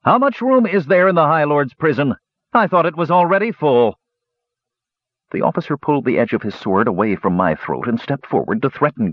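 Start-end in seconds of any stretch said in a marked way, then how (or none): 0.0-4.0 wide-eyed, high innocent asking; high, mock-innocent Kender voice; innocent question. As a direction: play dumb to needle the soldier. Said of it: "he innocently asked".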